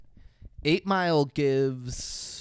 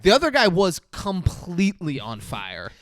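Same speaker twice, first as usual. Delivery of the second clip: much higher and louder, amped up; can't believe what he saw, climbing in pitch; excited retelling; 5 semitones higher, 6 dB louder than usual. Real, not acted. Recapping the burning men for his co-host, excited and loud.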